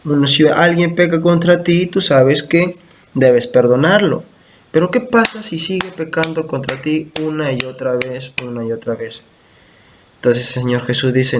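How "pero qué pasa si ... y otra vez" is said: hushed question. Real, not acted. Pastor poses a hard question.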